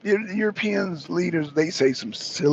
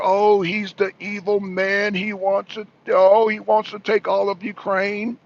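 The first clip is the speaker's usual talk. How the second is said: mocking quote; 3 semitones higher than usual. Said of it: "Putin being an evil dictator".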